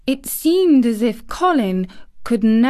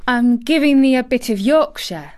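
put-on louder, triumphant Yorkshire girl; 5 semitones higher, 5 dB louder than usual. Mary proudly showing Colin her Yorkshire, triumphant. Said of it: "answered Mary triumphantly".

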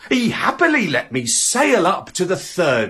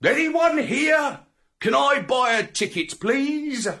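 dog voice; 10 semitones higher than usual. Acted. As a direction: ask politely, eager and high. Dog narrator asks ticket collector.

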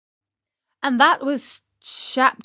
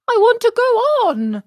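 high, fast, petulant; stubborn insistence; 13 semitones higher, 6 dB louder, faster than usual. Acted. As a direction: whine it out stubbornly.

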